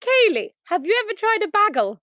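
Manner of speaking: high-pitched imitation of an excited mum; mum's eager question. Mum asking daughter about a new food, high mock voice. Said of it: "she was like".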